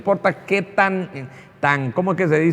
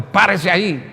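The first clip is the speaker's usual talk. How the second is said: mock police order, somewhat louder; imitated forceful command; 3 semitones higher, 4 dB louder than usual. Foreign policeman ordering someone to stop, forceful imitation. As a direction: imitate an officer giving a firm order. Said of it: "policías de otras naciones que te hablan fuerte".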